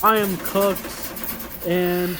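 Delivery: put-on high young woman voice; young lady voice. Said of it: "That was my young lady voice".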